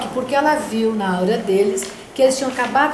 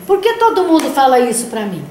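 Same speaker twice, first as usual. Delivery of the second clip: put-on child asking; 3 semitones higher, 6 dB louder than usual. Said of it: "Aí ele falou assim pra mim".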